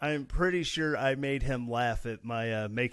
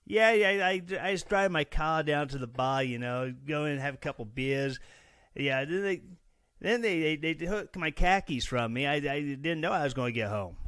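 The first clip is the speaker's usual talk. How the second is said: a hammed-up Boston accent that drops the R's, louder at the start; 3 semitones higher, 3 dB louder than usual. Host mocking a Missourian who sounds like he's from Boston, in a loud Boston accent. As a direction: play a rowdy Boston guy telling a bar story. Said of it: "why doesn't he pronounce his R's? ... Boston".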